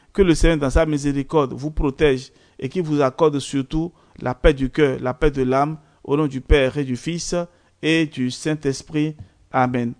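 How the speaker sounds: a gentle liturgical blessing, measured and calm; priestly blessing. Acted. Priest blessing his parishioners at the end, liturgical. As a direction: bless the faithful as you close the prayer.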